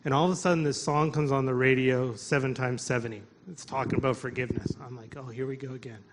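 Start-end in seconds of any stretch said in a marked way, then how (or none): 5.2-6.0 weary resignation. Retold or imitated. Weary aside at another forgiveness song.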